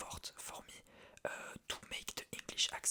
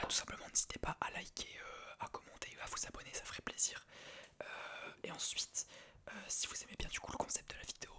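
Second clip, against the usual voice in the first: hushed, unvoiced-sounding ASMR whisper. Real, not acted. Vlogger telling viewers about an English translation challenge, whispered. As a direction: whisper it all, close and intimate.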